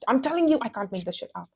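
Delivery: real pushy insistence; aggressively insistent. Real, not acted. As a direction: insist on it, starting high and falling off. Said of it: "I'm sorry I get so aggressive".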